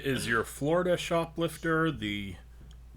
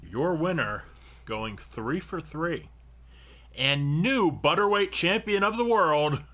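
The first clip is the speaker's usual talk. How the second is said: boxing announcer; 3 semitones higher than usual. Acted. Announcing the champion.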